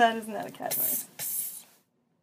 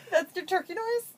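normal talking voice

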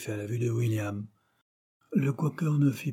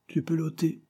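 short, higher, displeased order; curt, displeased Quaker; 7 semitones higher than usual. A narrator's reading. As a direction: cut him off, clearly put out. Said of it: "sa voix brève trahissant son mécontentement".

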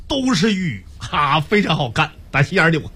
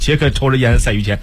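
Henan dialect Jack; 4 semitones lower than usual. Acted. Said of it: "我来模仿一下".

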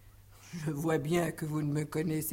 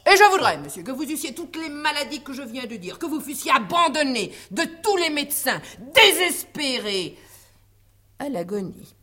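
haughty aristocratic french; 4 dB louder than usual. Acted. Disguised maid plays a pompous doctor.

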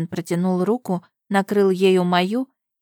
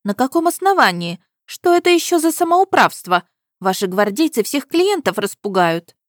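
indignant protest; 6 semitones higher, 4 dB louder than usual. A narrator's reading. Dressmaker protests the guards.

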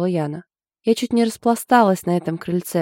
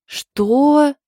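very high, loud "what?"; stunned exclamation; high startled shout; shocked chorus; 9 semitones higher, 6 dB louder than usual. A narrator's reading. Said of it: "хором воскликнули девчата".

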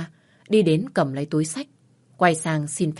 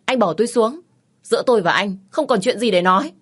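louder, higher angry yell; shouting; 5 semitones higher, 6 dB louder than usual. Acted. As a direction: shout him down, furious. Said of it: "mà hét lớn".

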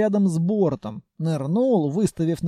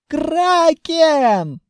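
much higher, very loud, slow panicked shrieks; panicked screaming; 9 semitones higher, 6 dB louder than usual. Acted. Groom shrieking in terror at the kraken, panicked. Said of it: "Громко вереща".

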